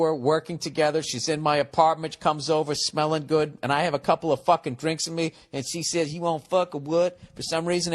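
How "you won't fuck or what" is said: put-on quick Southern accent on the come-on. Coworker propositioning him, in a light Southern accent. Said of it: "has a southern accent".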